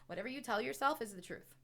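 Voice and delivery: speaking with gum in mouth; words around chewing gum. Real, not acted. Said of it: "I just realized that I have gum in my mouth".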